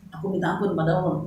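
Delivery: quick recited line; fast, lightly voiced friend's answer; mock friend's reply. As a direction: rattle it off like the friend. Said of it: "Masa saya nyuruh Udas".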